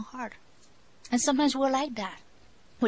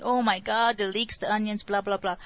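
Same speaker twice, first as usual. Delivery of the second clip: mock grumbling.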